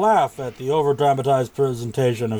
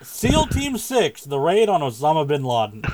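dramatic trailer voice. Pretend. Dramatic reading of movie title.

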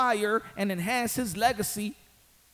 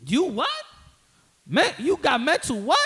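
mock disbelief; 5 semitones higher, 3 dB louder than usual. Acting out mocking an opponent.

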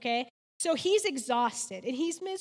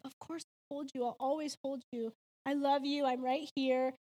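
soothing mother; 3 dB quieter than usual. Retold or imitated. Mother comforting crying son.

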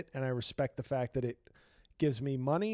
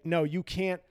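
mock solemn farewell; 3 semitones higher than usual. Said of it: "do I go chief and say".

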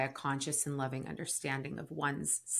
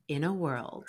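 trailer voice. Shown as a demonstration. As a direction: boom it out like a film trailer. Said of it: "my trailer voice".

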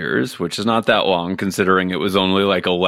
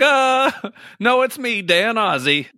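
much higher, squeaky put-on woman pretending to be Dan; high fake woman's voice; 13 semitones higher than usual. Imagined stand-in guest insisting she is Dan, high squeaky voice. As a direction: squeak it out as a woman posing as him. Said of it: "And she'd just be like".

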